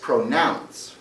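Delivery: pronounce, with the stress on NOUNCE; stress on second syllable. Shown as a demonstration. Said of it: "we stress the second syllable".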